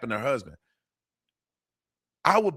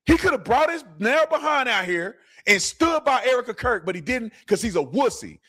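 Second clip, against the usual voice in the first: worked-up rant, higher and hotter; getting heated about a friend he thinks let Charlie down; 3 semitones higher than usual. Real, not acted. Heated host venting at Tucker Carlson, raised pitch. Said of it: "I'm getting heated".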